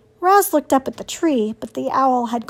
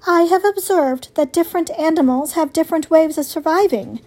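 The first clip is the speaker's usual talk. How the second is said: lightly voiced robot, pitched higher; higher, measured robot heroine; 5 semitones higher than usual. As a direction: answer evenly as a robot. Robot explains herself to animals.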